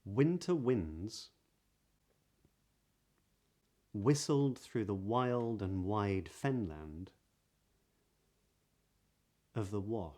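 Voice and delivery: slow reading with rounded W in "Winter winds whistled"; practice sentence. Shown as a demonstration. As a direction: linger on each W of "wild and wide", long pauses between phrases. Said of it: "here are some sentences".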